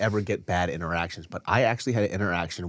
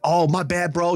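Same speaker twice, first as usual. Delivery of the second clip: sheepish fan; 8 semitones higher, 4 dB louder than usual. Retold or imitated. Imitating fan apologizing.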